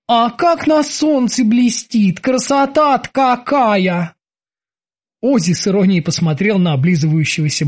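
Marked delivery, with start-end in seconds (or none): 0.1-4.1 high, slow, marvelling voice; high-pitched, lingering admiration; admiring bosun. Acted. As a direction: savour the sight, pitched up and drawn out. Bosun admires the shining statue.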